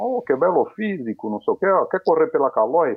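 put-on Uruguayan portunhol accent. Retelling what a Uruguayan man said to him; Uruguayan portunhol accent. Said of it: "aquele portunhol".

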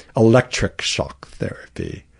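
bad, weak, unconvincing attempt at British accent. Quoting what the brits call the treatment, in a bad british accent. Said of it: "I can't do a good British accent".

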